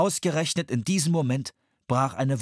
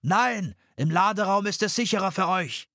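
objecting; 7 semitones higher than usual. A narrator's reading. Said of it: "widersprach Henry".

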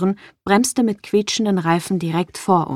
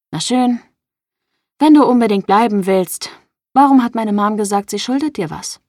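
louder, pushing for an answer; demanding confrontation; 3 semitones higher, 6 dB louder than usual. Acted. Sloan challenges Lucian about her mom's debt, loud and demanding. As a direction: confront him and demand the truth.

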